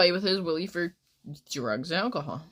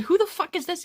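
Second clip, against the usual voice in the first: much higher, mock-outraged question; retold incredulous demand; 13 semitones higher, 3 dB louder than usual. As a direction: act out your baffled, indignant reply. Retold reply to unknown texter.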